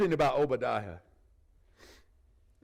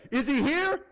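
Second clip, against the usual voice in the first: demanding Ahab; 11 semitones higher, 5 dB louder than usual. Retold or imitated. Ahab interrogating the nations.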